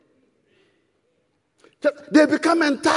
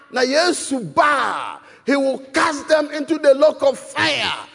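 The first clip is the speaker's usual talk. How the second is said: fervent preaching; slower than usual. Acted. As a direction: build the congregation up, hammer each phrase. Preaching at full force.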